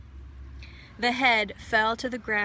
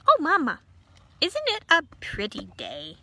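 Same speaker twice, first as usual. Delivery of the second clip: put-on high, loud chirpy child; delighted tiny voice from inside the head; high happy chirp; cheerful little voice; 4 semitones higher, 4 dB louder than usual. A narrator's reading. Eulalie chirps to Mother Lumps.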